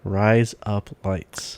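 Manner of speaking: slow drawn-out "Rise up lights" in an Australian accent; slow Australian "razor blades"; Aussie accent. Shown as a demonstration. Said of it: "Aussie accent".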